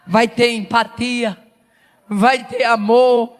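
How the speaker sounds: slow, measured declaration with long pauses; slow solemn preaching. Real, not acted. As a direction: lay each phrase down slowly. (declaração solene e lenta)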